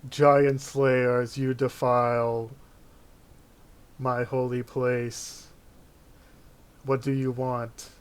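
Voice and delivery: lightly voiced commanding god; booming god voice. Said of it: "You hear a booming voice".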